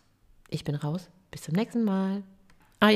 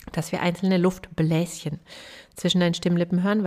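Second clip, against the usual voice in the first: ordinary talk, nothing marked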